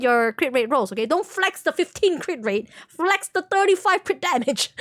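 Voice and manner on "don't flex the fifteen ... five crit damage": teasing. Real, not acted. Teasing a viewer about stats.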